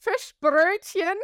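Fischbrötchen said slowly and high in German, FISH-brööt-chen; German pronunciation. Shown as a demonstration. Telling a friend what northerners call their fish roll, in proper German. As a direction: give Fischbrötchen its German sounds, drawn out and lifted. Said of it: "So we call it fish".

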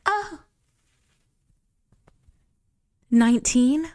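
hoog, luid verrast: Oh, nineteen?; surprised. Retold or imitated. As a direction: speel verbaasd de vraag. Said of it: "And she's like".

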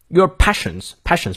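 "passions" stressed and drawn out slowly. Shown as a demonstration. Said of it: "passions重读".

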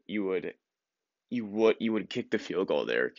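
ordinary talk, nothing marked

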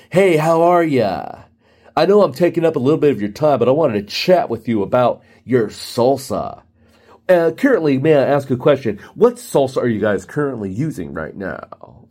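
lightly mocked chatty rep; clueless salesperson. Rep pops in uninvited about salsa, mildly put-on chumminess. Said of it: "the salespeople who don't understand hints".

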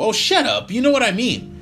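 angry yell. Acted. Tyler yells over John.

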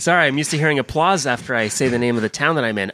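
self-important celebrity guest, lightly voiced; bad star impression, drawing out the show's name; Jack Black. Celebrity flattering his favorite podcast, slow impersonation. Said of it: "was that Jack Black in the hallway".

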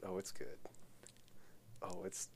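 gleeful, bursting to tell; can barely hold the story in; giddy anticipation. Real, not acted. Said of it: "like, giddy right now".

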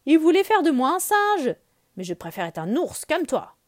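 put-on young Mowgli begging his bear friend; Mowgli the boy. Mowgli pleading with Balou to stay, boyish and loud.

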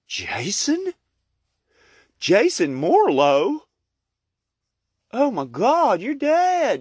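high startled cry of recognition; shocked miser. Acted. Miser recognizing his dead partner, high and shocked. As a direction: gasp out the dead man's name. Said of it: "And the guy's like".

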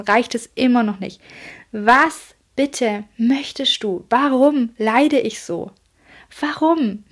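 half-acted desperate shout at the sky, slowing on was bitte möchtest du; retold yelling at the universe. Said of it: "ich hab das Universum angeschrien".

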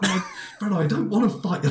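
high, whiny imitation of her own refusal; mock refusal. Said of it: "And I was like".

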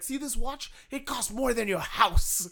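mock rich-guy boast; Ric Flair bragging. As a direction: show off the watch like a cocky heel. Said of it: "he would do interviews and be like".

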